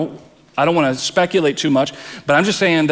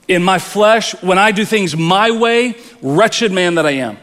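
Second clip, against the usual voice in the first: higher and louder, crying out in despair; anguished outcry; 4 semitones higher, 4 dB louder than usual. Retold or imitated. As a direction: cry it out as Paul in his struggle. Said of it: "Paul is saying".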